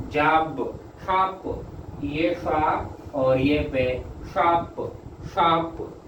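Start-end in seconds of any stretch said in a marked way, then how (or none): 2.0-4.0 slow dictation voice; slow letter-by-letter spelling. Shown as a demonstration. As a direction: lower and slow, naming each sound. Teacher spells out shorthand letters.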